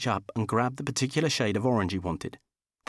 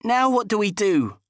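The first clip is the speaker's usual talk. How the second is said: high, fretful Dickie voice; squeaky, anxious man; whiny high man voice; 10 semitones higher, 4 dB louder than usual. Acted. Dickie's voice in story.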